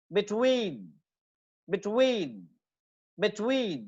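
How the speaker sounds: Between as short "bi", long "TWEEN"; second-syllable stress. Shown as a demonstration. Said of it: "second syllable पे होगी".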